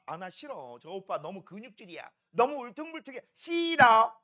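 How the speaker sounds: mock picky girl turning down a suitor; lightly voiced choosy girl; fussy girl amylase. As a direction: amylase the enzyme snubbing protein, mock fussy. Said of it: "아밀레이스는 누구만 좋아하느냐".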